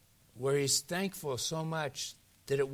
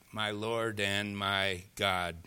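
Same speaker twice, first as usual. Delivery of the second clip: slow, low, drawn-out confession; awed cry, held back; 5 semitones lower, much slower than usual. Acted. Thomas cries out to the risen Jesus, subdued awe. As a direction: say it slowly and lower, in awe. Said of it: "cries out".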